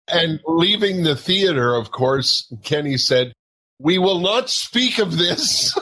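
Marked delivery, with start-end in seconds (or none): 3.8-5.7 slow, measured mock-grave pronouncement; mock-stern, word by word; tag solemn vow. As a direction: swear everyone to secrecy, higher and slower. Kenny swears them to silence.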